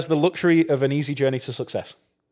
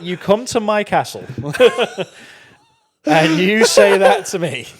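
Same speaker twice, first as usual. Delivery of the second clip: haughty slow lord, higher and louder; mock outraged king; 6 semitones higher, 4 dB louder, slower than usual. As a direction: play an offended castle lord. Mock royal indignation.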